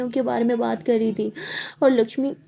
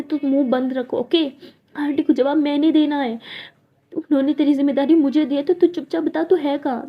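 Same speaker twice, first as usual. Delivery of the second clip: higher, louder agitated male friend; worried friend; 3 semitones higher, 4 dB louder than usual. Acted. Male friend on the phone scolding the missing Lakshmi. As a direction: demand answers, worried sick.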